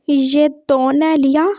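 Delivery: slow lisped question; लिया with l for r, तो with t for k; lisping. Acted. Lisping boy asks who Riya is, slowly lisped. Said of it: "तोतले को तोतला नहीं बोलेंगे".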